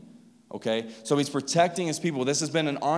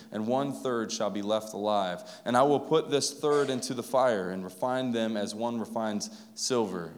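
scripture reading; 3 semitones lower than usual. Acted. Pastor reading scripture to the congregation, measured and solemn. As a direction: read the passage to the church with weight.

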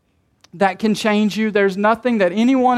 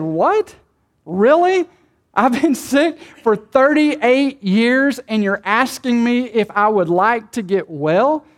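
a hint of incredulous disbelief, pitch up; incredulous sick man; slower than usual. Pastor voicing the crippled man answering Jesus, mock disbelief. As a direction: play the stunned sick man, lightly. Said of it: "this crippled man is saying".

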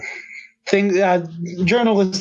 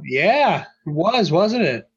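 sexy voice; 5 semitones higher than usual. Retold or imitated. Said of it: "Mark Hamill's sexy voice".

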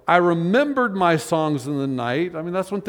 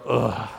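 groan; 7 semitones lower than usual. Shown as a demonstration. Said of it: "Things That Make You Go".

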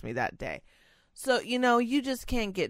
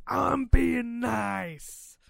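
forced niceness; 6 semitones higher, much slower than usual. Real, not acted. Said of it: "Like, I'm being nice".

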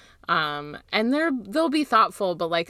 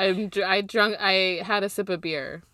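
laughing. Real, not acted. Laughing off being moved.

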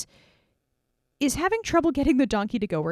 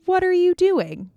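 high, loud, slow donkey demand; indignant donkey; 8 semitones higher, 7 dB louder, slower than usual. Acted. Donkey rebukes Balaam, high loud and slow. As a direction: draw it out loud and high, offended. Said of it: "the donkey looks at him and says".

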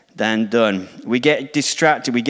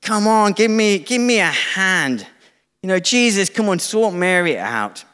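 a touch of flustered, higher impatience; nagging, exasperated plea, pitched up; annoyed Martha; 6 semitones higher than usual. Acted. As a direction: pester Jesus like a harried hostess in the kitchen. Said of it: "I can feel the annoyance of Martha".

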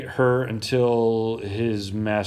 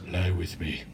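soft, low come-on as a mock girl; 4 semitones lower, 5 dB quieter than usual. Master's wife propositioning Joseph, in a mock girl voice. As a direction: drop to a hushed, put-on woman's voice. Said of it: "That's my girl voice for some reason".

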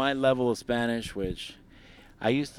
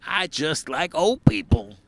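mock young woman; 7 semitones higher, 6 dB louder, slower than usual. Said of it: "She dated a fucking singer".

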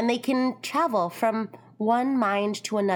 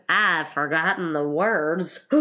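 Gryphon character voice; 4 semitones lower than usual. Acted. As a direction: lower creature voice. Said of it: "said the Gryphon".

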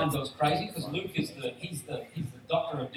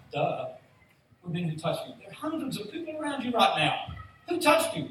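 mouthy Peter; 4 semitones higher than usual. Retold or imitated. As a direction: blurt it out like brash Peter. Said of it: "running off at the mouth going".

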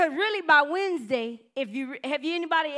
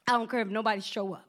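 voice of the Lord; 6 semitones lower, faster than usual. Retold or imitated. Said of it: "But he said".

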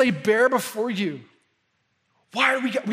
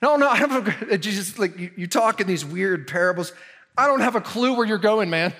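doubting Thomas; 4 dB louder than usual. Retold or imitated. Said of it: "Thomas, the doubter".

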